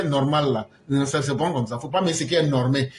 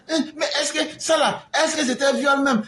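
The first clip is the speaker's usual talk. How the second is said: mocking laugh; 8 semitones higher than usual. People mocking the charge.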